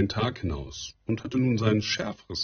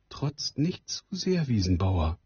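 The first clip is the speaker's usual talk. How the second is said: mild; 2 semitones higher than usual. Acted. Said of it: "sagte die Frau milde". (milde, langsam und höher)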